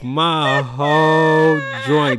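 loud, drawn-out words through laughter; laughing uproar. Real, not acted. Reacting to a high school picture of a friend, loud laughing disbelief. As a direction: crack up loudly while talking. Cracking up over an old picture.

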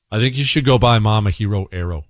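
ordinary talk, nothing marked

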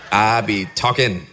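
"I be talking" said through a laugh. Shown as a demonstration. Admitting how he talks in private, laughing. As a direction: chuckle as you repeat "I be talking".

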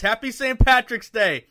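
loud, slow mock Irish accent; hammed-up Irish holiday shout; a host greeting listeners in a put-on Irish accent. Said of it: "I think I have a pretty good Irish accent".

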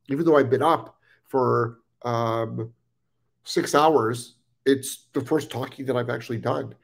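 talking through a head cold; congested voice from a cold; stuffy nose. Real, not acted. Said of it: "so difficult to talk with a cold".

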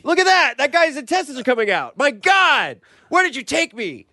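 high-pitched mock panic; acted shock, voice shooting up; horrified passerby. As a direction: cry out in appalled disbelief. Acts shocked passerby finding a body.

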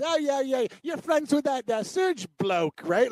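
mock the little kid's question; imitating a kid. Retelling the kid at soccer, lightly mimicked. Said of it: "he talks like bloke and this and that".

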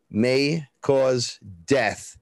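slow, drawn-out warning read; ad disclaimer voice. Retold or imitated. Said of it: "May cause, have you experienced death?".

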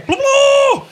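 very high chanted blub in unison; chorus of fish folk. Acted. All the fish folk exclaim together, very high. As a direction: cheer like a crowd of fish folk. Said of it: "udbryder i kor".

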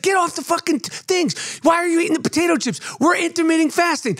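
high-pitched mock nagging, rattled off; retold scolding. Wife catching him eating potato chips, mock scolding. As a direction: imitate a scolding, pitched well up.

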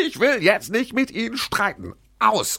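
re-enacting a furious phone yell. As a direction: bark it like a command to a dog. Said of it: "Ich habe gebrüllt".

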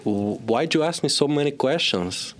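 high, mock-exasperated Belgian-Cuban accent. Son complaining to father in role, Belgian-Cuban accent. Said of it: "unidentifiable Belgian-Cuban person".

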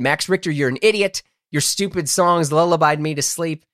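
comically aggrieved complaint; mock scolding. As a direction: blame an absent culprit in mild mock outrage.

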